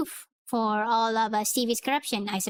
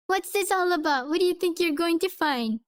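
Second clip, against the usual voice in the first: a hint of a cowering lawyer, pitched higher; nervous, higher questioning; cowardly voice; 5 semitones higher than usual. Steven nervously questioning Calloway, lightly cowardly. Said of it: "the most cowardly voice that I can".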